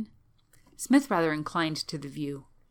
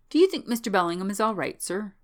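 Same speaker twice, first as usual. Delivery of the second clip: lightly voiced servant, quick and higher; worried old manservant; 4 semitones higher, 5 dB louder than usual. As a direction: ask the master anxiously, quickly and higher.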